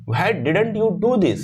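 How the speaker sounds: slow scolding with do stressed; mild mock anger; angry tone. Shown as a demonstration. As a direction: demand it like an upset boss. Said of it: "angry tone".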